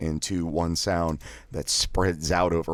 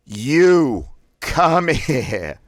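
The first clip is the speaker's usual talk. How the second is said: each word blasted high, loud and very slow; three words blasted; 10 semitones higher, 8 dB louder, much slower than usual. Shown as a demonstration. Voice exercise, "You come here" blasted word by word. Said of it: "Blast out all three words individually".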